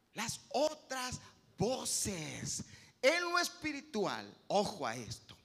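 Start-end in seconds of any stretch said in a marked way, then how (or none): 0.1-2.6 slow emphatic repeat. Shown as a demonstration. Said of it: "cuidado con las otras voces".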